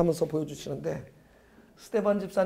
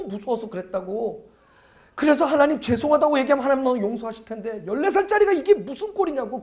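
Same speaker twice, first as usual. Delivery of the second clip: starts hushed and disbelieving, builds to a high scolding shout; 꾸짖는 고함; 4 semitones higher, 4 dB louder than usual. Retold or imitated. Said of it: "막 소리 질렀어요". (조용히 시작해 점점 높아지는 꾸짖는 고함)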